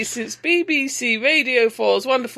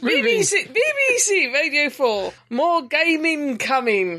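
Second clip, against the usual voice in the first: posh announcer voice; 2 semitones higher than usual. Pretend. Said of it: "it sounds better when you".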